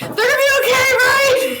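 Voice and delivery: very high-pitched, oddly angry. After an in-game earthquake, Godfrey quickly turns around: weirdly misplaced angry tone. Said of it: "in the a weirdly misplaced angry tone".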